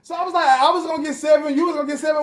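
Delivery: high, giggly run; laughing retelling. Retold or imitated. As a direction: laugh it out while explaining. Laughing retelling of his plan.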